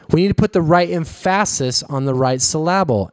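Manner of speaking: em-FASS-is on the right syl-LAB-le; deliberately misstress emphasis and syllable; second-syllable stress on emphasis and syllable; misplaced word stress. Retold or imitated. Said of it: "was Mike Myers quote".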